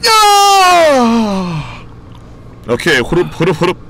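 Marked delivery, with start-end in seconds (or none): 0.1-1.8 high startled yell; shout. Real, not acted. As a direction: yell out suddenly. Sudden yell in game. (높게 외치기)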